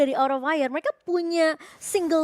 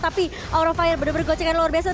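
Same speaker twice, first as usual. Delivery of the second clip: ordinary delivery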